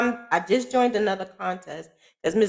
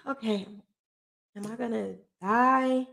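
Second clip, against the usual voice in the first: crying; 3 semitones higher, 8 dB quieter than usual. Retold or imitated. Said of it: "like, crying".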